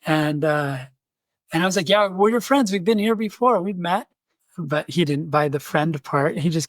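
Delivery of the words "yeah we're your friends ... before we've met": high-pitched retold placating; eagerly friendly. Missionary reminding armed drunk they have met, eagerly friendly. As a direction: plead friendship in a raised, chummy voice.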